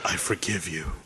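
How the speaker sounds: low, hushed, earnest line reading; soft and deep, playing conviction; mock solemn conviction. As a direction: deliver it as a quiet closing line. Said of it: "that last line with conviction".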